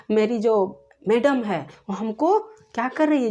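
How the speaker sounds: ordinary delivery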